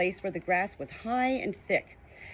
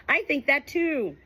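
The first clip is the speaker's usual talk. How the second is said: high, slow little monkey call; tiny monkey voice; 7 semitones higher, 4 dB louder, slower than usual. A narrator's reading. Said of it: "tiny red monkey ... shouted down".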